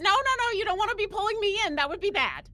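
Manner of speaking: high, pleading protest, quickening; calling out. Acted. Player's character calling to the tentacle grappling her, high alarmed plea. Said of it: "I would call out".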